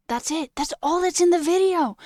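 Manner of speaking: hammed-up caption voice; mocking video voice. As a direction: parody a vapid video. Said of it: "me just going".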